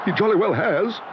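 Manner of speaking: put-on boy cheering the bear; excited cry. A narrator's reading. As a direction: crow it. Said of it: "cried Jonathan".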